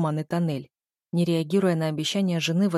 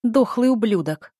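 louder, higher furious yell; angry shout; 4 semitones higher, 6 dB louder than usual. A narrator's reading. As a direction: spit the insult at him. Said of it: "гневно выкрикнула". (гневный выкрик)

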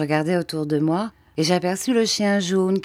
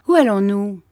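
anxious question; 5 semitones higher, 6 dB louder than usual. Acted. Hero asks where they go.

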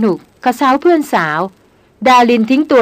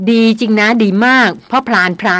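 huffy sarcasm. Acted. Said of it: "ดารินเน้นเสียงประชดมาอย่างฉิวๆ".

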